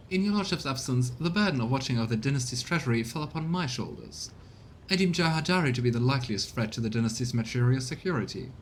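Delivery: formal, scheming courtier reporting to his lord; lightly voiced courtier; a hint of a smug informant; courtier character voice. Reads game character dialogue.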